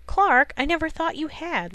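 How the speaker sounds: high, sharp outburst; exclaiming. A narrator's reading. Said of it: "Lois exclaimed".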